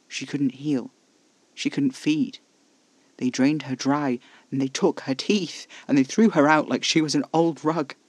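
loud, mounting horror and anger; building outrage. A narrator's reading. Casper recounting the mutilated vampire, outrage building. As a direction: build from firm to shouting outrage.

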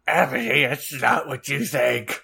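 hammed-up mournful cry; sad scream. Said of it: "he screamed, sadly".

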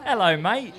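a laughing, overdone English "hello, mate"; mock English accent. An English guest mocks his own accent, laughing through a hammed-up English accent. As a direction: greet like a cheeky Londoner, laughing through it. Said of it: "that was the least English accent".

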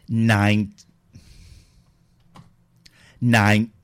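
shouted flat nine into the mic; loud robot voice attempt. Shown as a demonstration. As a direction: bark the number for the voice changer. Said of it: "trying to do the voice yourself".

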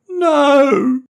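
put-on high, loud child's yell; a boy yelling out in protest. A narrator's reading. Boy yelling at his mum about the tree. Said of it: "Matty yelled".

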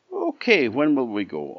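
bright and keen; eager little pig. A narrator's reading.

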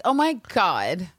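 high, loud, gushing fan; gushing excitement. Retold or imitated. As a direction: squeal over the old photo. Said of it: "I was like".

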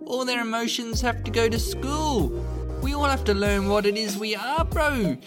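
put-on easygoing broad New Zealand accent; broad kiwi accent. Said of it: "earlier reader: broad kiwi accent".

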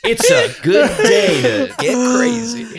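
hammed-up maniac relishing a fight; mock deranged threat. Joking threat to scare an intruder, loud high crazed yelling. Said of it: "words you could say that might potentially scare".

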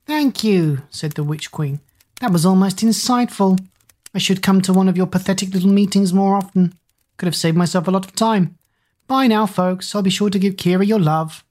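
shrill, scratchy, mocking witch queen; evil queen. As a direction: sneer it like a cruel witch queen. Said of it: "a shrill, scratchy voice came through".

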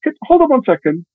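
high-pitched agent's "hold on"; hurried stalling. Retold or imitated. Junior agent to caller on speakerphone, high stalling voice. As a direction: voice jumps up to put the caller off.

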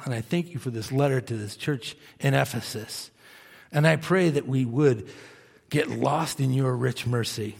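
gentle, fading prayer voice. Acted. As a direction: pray over the people, softening at the end. Leads a closing prayer.

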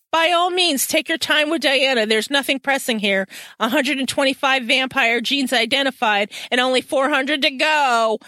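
mock the boss with sweet false courtesy; sarcastic. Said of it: "she's being that sarcastic".

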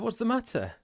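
high, worried ask; alarmed question. Retold or imitated. Asking shocked wife, alarmed.

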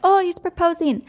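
high, gushing mock realization; imitating fans melting at the proposal; delighted fans. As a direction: coo it like a fan who suddenly gets it. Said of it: "And then they're like".

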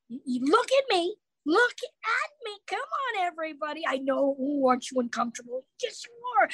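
höher, spielerisch neckend; mock teasing audience. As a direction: necke das Publikum wie auf der Bühne. Teasing stage intro to the audience.

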